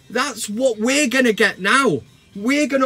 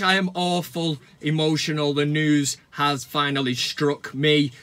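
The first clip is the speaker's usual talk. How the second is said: mock emotional; 6 semitones lower than usual. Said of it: "Sorry, I'm choking up".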